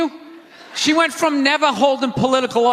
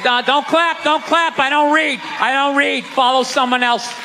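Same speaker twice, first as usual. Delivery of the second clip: lightly voiced stern preacher; a hint of a pastor scolding the flock; 4 semitones higher than usual. Comedian mocking a church preacher, lightly stern.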